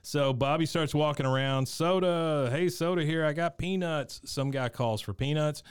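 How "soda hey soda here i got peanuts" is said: higher-pitched mock vendor's call; soda vendor call. Host plays Bobby selling snacks, lightly voiced vendor call. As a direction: lightly call out your wares to the stands.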